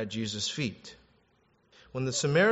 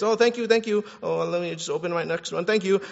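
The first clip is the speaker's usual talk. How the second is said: lightly voiced excited child; eight-year-old's thanks; 4 semitones higher than usual. Child thanks grandparents between gifts, lightly acted eagerness. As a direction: toss off hurried thanks like a kid. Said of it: "eight-year-old thanking his grandparents on Christmas Day".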